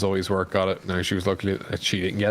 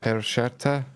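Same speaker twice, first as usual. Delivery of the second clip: Italian accent, lightly; 2 semitones higher, slower than usual. Shown as a demonstration. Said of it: "say that again".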